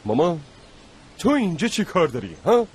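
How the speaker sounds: worried son snapping at his mother for wandering off; angry scolding. Acted. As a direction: scold her out of fear for her.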